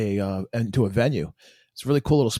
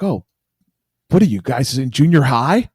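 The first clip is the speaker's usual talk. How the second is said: louder, mocking retort; imitated yell back; 6 dB louder than usual. Girl yells back at the band's fans, mock scornful shout. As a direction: mimic a put-down yelled over the road. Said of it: "she yelled back".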